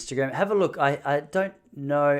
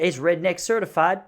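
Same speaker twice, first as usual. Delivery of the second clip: lightly voiced redneck, higher and louder; mock assurance from a redneck; redneck rope-swinger; 5 semitones higher, 3 dB louder than usual. Redneck assuring that it's safe, lightly imitated. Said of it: "And no joke, he goes".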